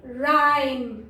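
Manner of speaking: राइम with a drawn-out "eye" vowel; long I demo. Shown as a demonstration. Teacher answering how to read it, राइम with long I. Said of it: "कैसे पढ़ेंगे?".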